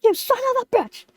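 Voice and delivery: mildly hammed-up indignation; furious at mountain. Lemon accusing the mountain of defeating him, mock furious. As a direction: scold it in mock fury. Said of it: "I'm just furious".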